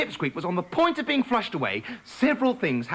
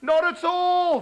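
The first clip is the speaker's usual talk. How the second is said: airy; 12 semitones higher, 4 dB louder, slower than usual. Acted. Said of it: "said Petulant airily".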